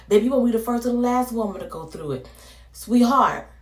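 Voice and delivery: lightly voiced elder, fast and high; old auntie voice. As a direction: comfort like an old auntie, quick. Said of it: "as the elders say".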